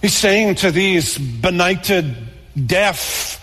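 high, slow, impassioned plea; preacher voicing God's urgent call; climactic call. Real, not acted. Climax, God calling the wayward.

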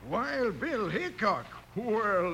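impressed surprise. Acted. Old-timer learning who his rescuer is, amazed. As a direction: draw the name out in wonder.

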